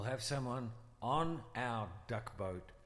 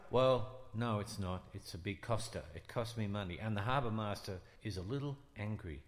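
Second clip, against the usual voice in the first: put-on Brooklyn accent; 3 semitones lower than usual. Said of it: "Is your Brooklyn accent for real?".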